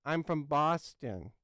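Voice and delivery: slow, mock Boston accent; badly faked Boston accent. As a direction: try a Boston accent, drawing it out. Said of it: "gonna try my best Boston accent".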